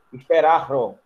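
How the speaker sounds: "esperar o" as two words, the "o" tacked on; awkward uncontracted form. Shown as a demonstration. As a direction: demonstrate how odd "esperar o" sounds unjoined. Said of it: "Ia ficar estranho". ("esperar o" sem contração, soando estranho)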